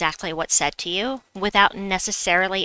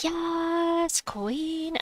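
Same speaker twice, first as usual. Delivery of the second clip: excited cheer; 10 semitones higher, 5 dB quieter than usual. Real, not acted. Game success cheer.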